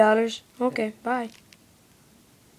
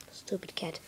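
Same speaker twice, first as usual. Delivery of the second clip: scornful whisper; 8 semitones lower, 19 dB quieter than usual. Acted. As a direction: hiss it behind his back. Insult under the breath.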